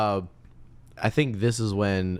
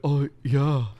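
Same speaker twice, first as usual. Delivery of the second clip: prospector guest; 5 semitones higher than usual. Retold or imitated. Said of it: "And he's like".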